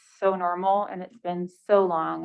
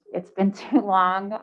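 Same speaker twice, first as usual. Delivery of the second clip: real chuckle mid-sentence; amused laugh while speaking; 4 dB louder than usual. Real, not acted. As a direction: laugh breaks into the line. Laughing at missing bus traffic.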